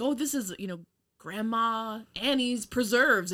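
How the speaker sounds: lightly voiced proud docent; proud tour guide. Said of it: "they're like".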